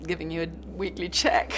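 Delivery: conspiratorial whisper with a breathy laugh; playful hushed whisper; whispered aside. Acted. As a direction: whisper it like a cheeky secret. Joking aside about studio money.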